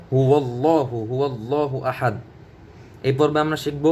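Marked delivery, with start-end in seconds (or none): 0.1-2.1 "হু আল্লাহু" joined with a w, huwal-laahu; correct linked pronunciation. Shown as a demonstration. Teacher gives the right reading, "হু আল্লাহু" as huwallahu. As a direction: link "হু আল্লাহু" through a w glide. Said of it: "তাহলে উচ্চারণ হবে".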